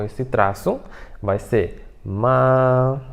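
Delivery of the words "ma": "ma" stretched out on a level pitch; "ma" sustained on one note; long first tone. Shown as a demonstration. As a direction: hold "ma" long and even.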